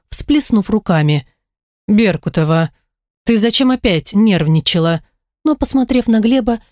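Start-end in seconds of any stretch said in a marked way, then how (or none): none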